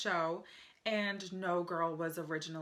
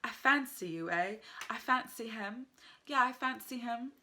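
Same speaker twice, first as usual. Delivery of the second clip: British slang quote; 3 semitones higher than usual. Retold or imitated. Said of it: "they'll say".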